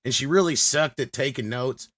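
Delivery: lightly voiced old-school producer, brash and dismissive; Frank the producer. Frank trashing his old muse to the hosts, brash. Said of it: "Frank, she was nothing more than your muse".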